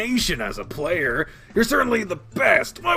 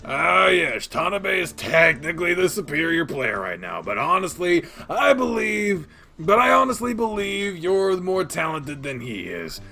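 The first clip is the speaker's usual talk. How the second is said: loud, raised eye-rolling concession; exasperated groan; 5 semitones higher, 7 dB louder than usual. A narrator's reading. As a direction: groan it out, then insist. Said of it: "Kobayashi Senior groans, rolling his eyes".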